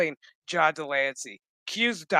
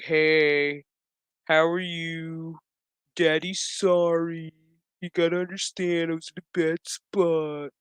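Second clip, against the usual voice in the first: mock sheepish dad. Father apologizing, dressed up.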